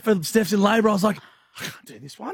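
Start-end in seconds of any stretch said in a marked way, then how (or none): 1.6-2.3 very soft retold thought; quiet aside. Prankster retelling own second thoughts, hushed. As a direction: drop right down as if confiding.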